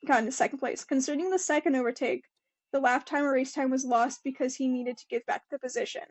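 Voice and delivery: quick, even reading voice; article read-aloud. Acted. Podcaster reading the race quote to co-host, brisk read-aloud. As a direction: read it out briskly, without performing.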